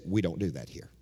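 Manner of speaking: a hint of a stiff church elder scolding; stern deacon. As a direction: shut her down like a cold deacon. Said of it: "one of the deacons stepped down and said".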